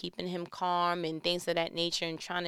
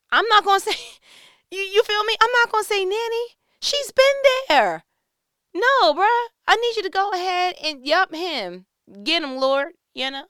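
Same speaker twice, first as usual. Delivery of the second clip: much higher and louder, laughing; excited laughing shout; 13 semitones higher, 12 dB louder than usual. Real, not acted. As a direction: cheer it on, cracking up. Laughing, cheering on vengeance.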